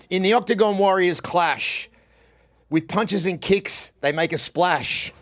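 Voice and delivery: sing-song reading of a silly rhyme; poem reading. Acted. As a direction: read it out like a cheesy verse. Reads the AI poem aloud.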